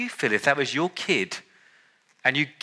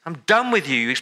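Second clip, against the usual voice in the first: angry God rejecting; 4 semitones higher than usual. Retold or imitated. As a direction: voice God snapping in fed-up anger. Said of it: "we expect God to say".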